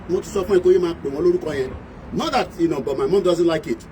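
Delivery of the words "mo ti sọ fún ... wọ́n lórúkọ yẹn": imitating scolding mom. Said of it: "it's gonna come in and say".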